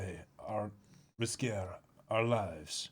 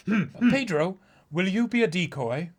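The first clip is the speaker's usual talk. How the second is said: much higher, earnest and urgent strategist; a higher, eager voice laying out a risky plan; higher character voice; 8 semitones higher, 9 dB louder than usual. Acted. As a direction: pitch up and plead the plan with urgency. The high character asks.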